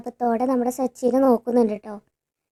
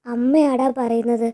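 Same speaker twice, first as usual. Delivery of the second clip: pleading mother; 4 dB louder, slower than usual. Retold or imitated. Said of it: "നെഞ്ച് പൊട്ടി കരയാണ്".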